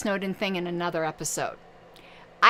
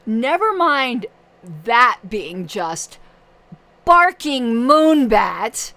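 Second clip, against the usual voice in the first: exasperated; 3 semitones higher, 6 dB louder, slower than usual. Real, not acted. Sarcastic rant, loud.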